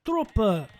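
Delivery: hammed-up German, landing near Finnish; attempted German accent. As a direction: have a clumsy go at a German accent. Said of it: "I was trying to do German".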